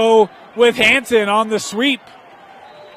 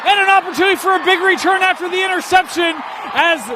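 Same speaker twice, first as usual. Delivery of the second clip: excited play-by-play; 5 semitones higher than usual. Real, not acted. Live call of an interception.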